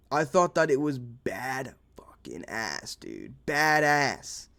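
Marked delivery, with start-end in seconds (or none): 0.1-3.3 slow unvoiced whisper, a cheeky aside. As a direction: drop to a sneaky whisper, taking your time.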